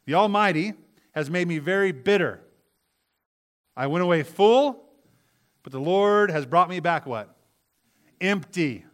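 loud, high emphatic reading; preaching with force. Acted. Preacher proclaiming Naomi's words to the congregation, loud. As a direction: drive the verse home.

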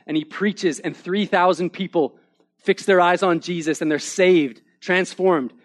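fervent preacher recounting a triumph; emphatic preaching. Acted. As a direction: proclaim it to the congregation with conviction. Preaches Peter's rise with force.

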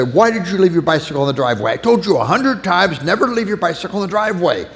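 put-on rising, fast scolding of the child; impatient dad scolding. An impatient father scolds his son over the bicycle, heated. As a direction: scold the kid, getting heated. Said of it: "I feel very impatient with this child".

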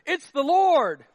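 loud, high and slow: It's the Lord; John's exclamation. Acted. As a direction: cry it out in awe, drawn out. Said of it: "said to Peter".

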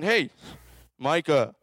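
drawn-out playful calling; calling out names. Retold or imitated. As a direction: call each kid like God trying to reach them. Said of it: "God's saying".

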